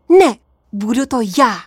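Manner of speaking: quick, resolute outburst; determined blurt. Acted. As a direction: jump in before anyone else. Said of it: "vyhrkla jsem odhodlaně".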